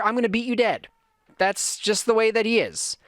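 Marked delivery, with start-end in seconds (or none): 0.0-0.9 mock angry child. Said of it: "Titus is pure".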